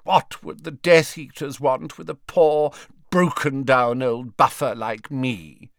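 loud, high, indignant question; demanding. A narrator's reading. Old man demands what Death Eaters want with him, indignant. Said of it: "demanded Slughorn".

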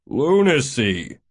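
slow, drawn-out exclamation; exasperated. A narrator's reading. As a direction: stretch it out in disbelief. Mavis scorns the change of mind.

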